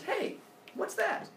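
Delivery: high, slow, drawn-out hey; curious call. Acted. Zeus spotting his son's instrument, curious.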